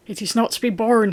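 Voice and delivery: the son in a rage at his father, crying out; cried in rage. Acted. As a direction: burst out, stung. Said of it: "he cried".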